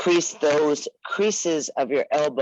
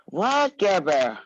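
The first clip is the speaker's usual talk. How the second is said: surprised call-out; 3 semitones higher, slower than usual. Real, not acted. Teacher calling out to a student.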